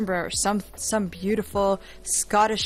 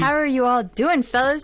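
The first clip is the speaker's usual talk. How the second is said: advert voice; 3 semitones higher, 4 dB louder than usual. Pretend. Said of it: "like she's in an advert".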